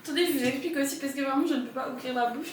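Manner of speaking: talking through sore braces; barely opening the mouth. Real, not acted. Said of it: "mon appareil dentaire qui me défonce la joue".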